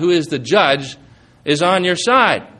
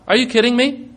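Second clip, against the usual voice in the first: incredulous; 6 semitones higher than usual. Real, not acted. Incredulous rebuttal of critics.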